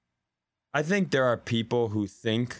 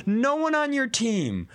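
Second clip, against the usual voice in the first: incredulous; 6 semitones higher than usual. Retold or imitated. Mock staffer, incredulous rant.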